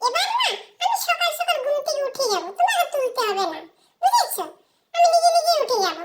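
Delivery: put-on child bragging to mum, laughing; laughing boast. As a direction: brag through giggles.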